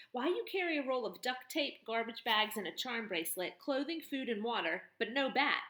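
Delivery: tough barn woman turning his words on him; mocking tough woman. Woman figure voice.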